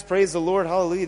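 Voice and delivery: breezy, glib hallelujah in the Christian bubble; lightly mocking complacent believer; mock churchy praise. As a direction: toss it off like a cheerful cliché. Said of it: "You call your Christian friends".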